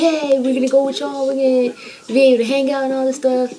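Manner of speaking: imitating her younger self cheering; childish excitement. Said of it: "and we're thinking".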